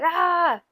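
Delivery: high mock-frustrated "ah"; short acted cry of exasperation; angry outburst. Partner having a bad day, mock-angry groan. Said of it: "super angry".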